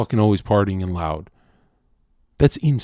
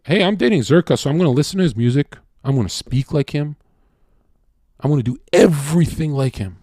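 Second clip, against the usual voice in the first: higher-pitched, quick imitation of a girlfriend; mock smitten girlfriend; 5 semitones higher, faster than usual. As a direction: lightly imitate an eager, copycat girlfriend. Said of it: "they don't even know that they're turning into clones".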